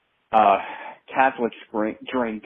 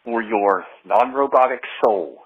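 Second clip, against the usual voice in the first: voice changer; 2 semitones higher than usual. Acted. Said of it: "contorting with my voice changer".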